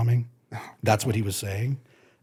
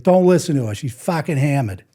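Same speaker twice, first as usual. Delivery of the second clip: higher, louder, blunt reassurance; boyfriend's outburst; 5 semitones higher, 5 dB louder than usual. Retold or imitated. Boyfriend excusing his drunk girlfriend, loud and blunt. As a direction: blurt it out over the bar noise.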